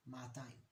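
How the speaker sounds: "ma'atayim" with a held first a; long opening vowel, maa-tayim; lengthened first vowel. Shown as a demonstration. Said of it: "we lengthen it a little bit".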